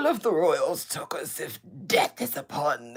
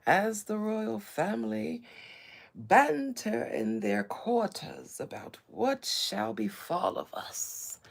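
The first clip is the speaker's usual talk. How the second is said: mock ancient royal voice; 2 semitones higher than usual. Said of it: "talk like this in such an ancient voice".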